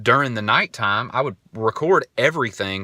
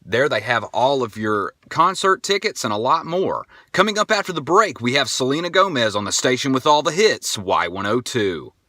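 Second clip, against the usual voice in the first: fake radio DJ; 3 semitones higher than usual. Shown as a demonstration. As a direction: sell it like a radio host teasing what follows the break. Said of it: "it was like".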